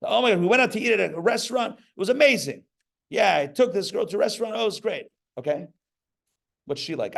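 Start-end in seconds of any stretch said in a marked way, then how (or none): 0.0-5.1 high, fast gushing; mock raving diner. Rabbi mocking a man raving about a restaurant. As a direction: rave like a shallow date.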